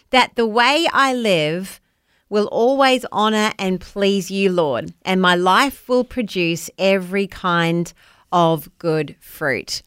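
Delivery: slow, softened scripture reading; prayerful reading. Acted. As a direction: read it gently like a prayer. Reads Bible verse as prayer.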